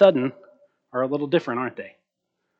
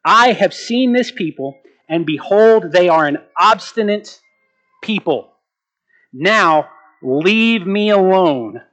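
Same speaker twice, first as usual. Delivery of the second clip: louder, measured reading of God's angry words; God's anger; 4 dB louder, slower than usual. Acted. Preacher voicing God's anger at Israel, heated and slow. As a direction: read God's rebuke with rising anger, dragging out leave me alone. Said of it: "listen to what he says".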